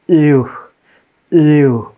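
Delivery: "U" as a falling "ee-oo" glide; teacher's isolated, emphatic "U"; sound demonstration. Shown as a demonstration. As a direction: sound out "U" like "yoo". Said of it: "the sound of U here".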